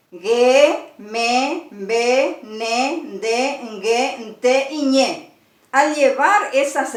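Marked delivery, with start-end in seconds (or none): 0.1-5.4 each nasal consonant said as its own separate syllable; listing nasal consonants. Shown as a demonstration. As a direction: spell out ge, me, be, ne one by one. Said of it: "las consonantes nasales eran".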